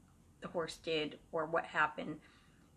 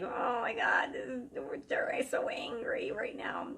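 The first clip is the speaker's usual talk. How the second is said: breathy, hushed and a bit slow; frightened whisper; 4 semitones higher than usual. Retold or imitated. Friends whisper to each other, scared of the angry spirit. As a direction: whisper as if the spirit might hear.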